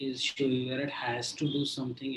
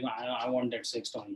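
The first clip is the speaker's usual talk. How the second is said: put-on unashamed, offhand, casual, matter-of-fact tone; 2 semitones lower than usual. Retelling how the patient asked, as if nothing: imitating an unashamed matter-of-fact tone. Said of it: "as if my toe is paining".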